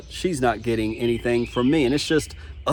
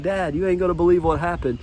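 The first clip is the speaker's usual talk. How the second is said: higher-pitched, giddy retold news; eager phone-call quote to Dad; excited; 5 semitones higher than usual. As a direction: recount it like you can barely believe it. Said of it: "I was so excited".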